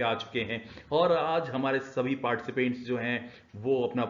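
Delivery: reality show anchor. Shown as a demonstration. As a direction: pump up the studio audience like a TV host. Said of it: "the anchor was trying to present the thing".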